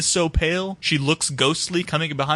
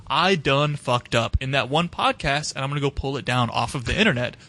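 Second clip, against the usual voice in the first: mock actress regret; 5 semitones lower than usual. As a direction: play her lightly, sheepish about the podcast. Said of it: "you're going to be like".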